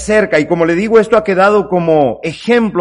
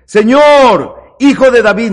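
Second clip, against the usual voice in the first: pleading call; 3 semitones higher, 4 dB louder than usual. Retold or imitated. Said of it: "note que le dice hijo de David".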